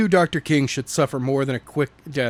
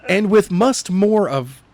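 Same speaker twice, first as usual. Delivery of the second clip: laughing through it; 6 semitones higher, 3 dB louder, slower than usual. Real, not acted.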